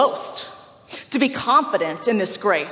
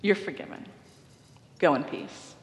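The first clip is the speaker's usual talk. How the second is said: gentle absolution; 3 semitones lower, 5 dB quieter than usual. Retold or imitated. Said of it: "he said".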